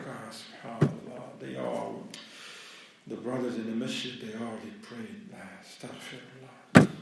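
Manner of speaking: low, soft inner monologue; quiet regret. Acted. Man who missed prayer for a game, quiet regret. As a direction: reproach yourself under your breath.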